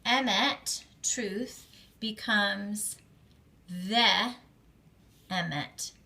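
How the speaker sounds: "emet" said clearly with an e sound; pronunciation demo. Shown as a demonstration. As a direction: model "emet" with a clear segol. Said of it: "stealing this part".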